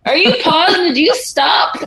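high mock-scolding questions; imitating a suspicious trainer. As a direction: call down the stairs like a drill sergeant. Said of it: "He's like".

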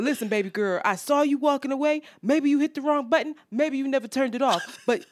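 mimicked street-guy lecture, quickening; lecturing. Stranger advising baby girl about her car, lecturing. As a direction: school her as the know-it-all man. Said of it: "He was lecturing me".

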